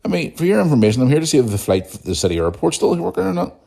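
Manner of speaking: high incredulous excuse me, then tart reply; retold indignant comeback. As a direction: put her in her place, affronted. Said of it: "I just looked at her and went".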